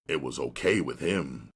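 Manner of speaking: usual speaking voice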